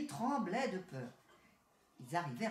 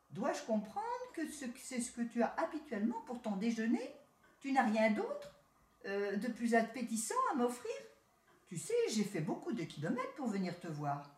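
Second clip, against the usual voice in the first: lightly higher city rat, smug and friendly; a touch of the proud town cousin; 3 semitones higher than usual. Acted. City rat greeting his country cousin, lightly voiced.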